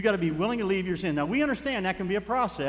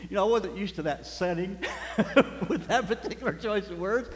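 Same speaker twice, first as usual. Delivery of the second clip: laughing; 2 semitones higher than usual. Real, not acted. Laughing while telling.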